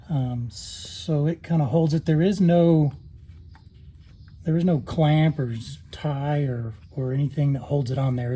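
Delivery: talking while lying on your back; strained voice from under a car. Real, not acted. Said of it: "here I'm under the car".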